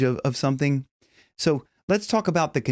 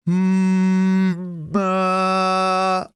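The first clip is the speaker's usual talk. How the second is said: hum opening to ah; 6 semitones higher, 3 dB louder than usual. Shown as a demonstration. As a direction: hum then open the mouth. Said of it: "plug our nose".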